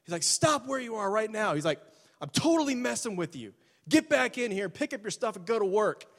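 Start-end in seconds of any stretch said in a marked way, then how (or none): 0.2-1.5 commanding halt. Retold or imitated. Boss halts departing salespeople. 2.2-6.0 gleeful reveal. Retold or imitated. Boss reveals prank, gleeful.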